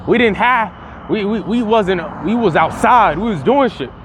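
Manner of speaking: lightly voiced back-in-my-day grumbler; scolding older critic. Imitating people who call millennials lazy, lightly acted scolding. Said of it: "or people that speak like this".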